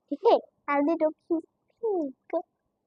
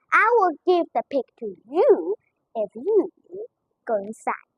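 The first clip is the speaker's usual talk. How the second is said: calm, gentle. Acted. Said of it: "said quietly and calmly".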